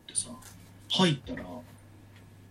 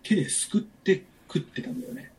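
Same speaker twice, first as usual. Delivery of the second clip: sheepish whisper; 5 semitones higher, 5 dB quieter than usual. Real, not acted. Confessing eating leftovers.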